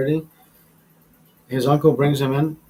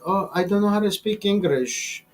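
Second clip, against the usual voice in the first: mock Asian accent; 5 semitones higher than usual. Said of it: "If they say my name with that accent".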